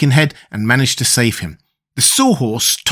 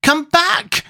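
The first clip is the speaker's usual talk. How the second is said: shouted call. A narrator's reading. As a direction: call into the distance, pitch soaring. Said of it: "shouted the boy again".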